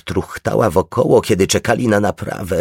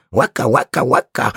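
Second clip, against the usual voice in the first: gull cries; 5 semitones higher than usual. A narrator's reading. Seagulls crying.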